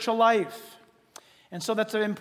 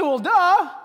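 mock dismissive listener; 7 semitones higher, 7 dB louder than usual.

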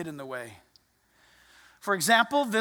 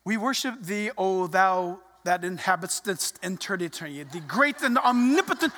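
mock-pious, stilted praying voice; mock formal prayer; 5 semitones lower than usual. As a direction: intone it like a pompous public prayer. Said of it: "they're talking normal to you, and then they'll pray".

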